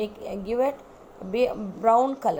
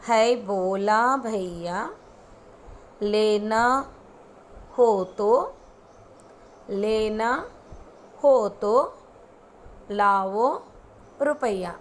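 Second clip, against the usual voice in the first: very slowly; faster than usual. Shown as a demonstration. Teacher chanting slowly so the children can follow. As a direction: rhyme broken into small pieces with long gaps. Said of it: "I'll go very slowly".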